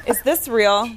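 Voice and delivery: put-on American valley girl voice; bubbly California valley girl; valley girl accent. Shown as a demonstration. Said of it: "Can you bring that back for me now?".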